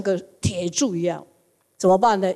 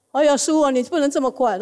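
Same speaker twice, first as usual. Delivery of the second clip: mock wailing; 6 semitones higher than usual. Disciples wail for dead master.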